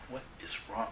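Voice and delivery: very soft, near-whispered question; hushed, strained whisper. Retold or imitated. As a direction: ask gently with barely any voice left. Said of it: "I had to whisper it".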